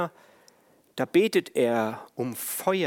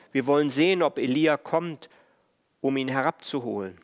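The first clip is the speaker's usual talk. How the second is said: called out; faster than usual. Retold or imitated. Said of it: "rief er".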